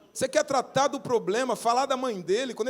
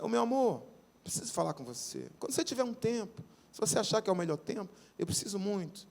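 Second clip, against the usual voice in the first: softer, tender plea to a spouse; gentle request; 6 dB quieter than usual. Shown as a demonstration. Showing how to open a talk with a spouse, gently and softly. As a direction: ask softly, lovingly. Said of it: "Então, começa assim, ó".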